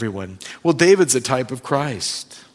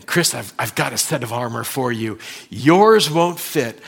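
the Lord speaking. Retold or imitated. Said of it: "The Lord says".

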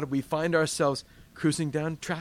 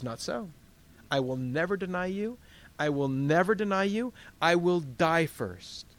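Peter's vow; 3 semitones higher than usual. Acted. Peter vows never to deny.

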